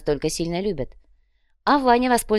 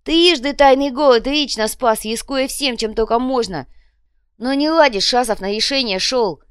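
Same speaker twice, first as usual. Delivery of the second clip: loud, high-pitched grandiose speech; holding forth; 6 semitones higher, 5 dB louder than usual. A narrator's reading. Копыта tells kinsfolk of his sacrifices, holding forth grandly. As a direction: orate with swelling self-importance. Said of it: "продолжал разглагольствовать Копыта".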